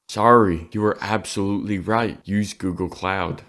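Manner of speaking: loud, bright apologetic bot; chatbot apology. Pretend. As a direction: apologize like a cheerful AI. Voicing ChatGPT apology.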